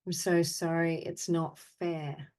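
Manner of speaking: deliberate, evenly spoken phrases with long pauses; guided apology meditation. Acted. Meditation leader answering the group's sadness and anger with measured apologies. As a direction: offer each apology, then leave silence. Offers apologies to participants' named feelings.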